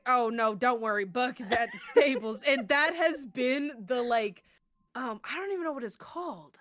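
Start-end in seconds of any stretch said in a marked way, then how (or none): 0.1-2.4 retelling through giggles; a light laugh on the line. Retold or imitated. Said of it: "I was like".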